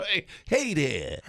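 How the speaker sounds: slow mock-French take on Wisconsin talk; French accent. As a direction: greet slowly like a silly Frenchman. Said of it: "French version".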